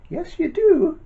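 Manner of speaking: squeaky high teasing pantomime call; high sing-song. Acted. Teasing the children, pitch jumps.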